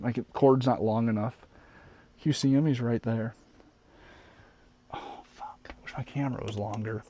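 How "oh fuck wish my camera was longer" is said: hushed whisper so the moth stays. Real, not acted. Trying not to scare the moth, whispered. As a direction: breathe it out under the breath. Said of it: "whispered aside".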